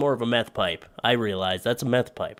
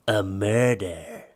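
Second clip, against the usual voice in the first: dramatic reveal; much slower than usual. Acted.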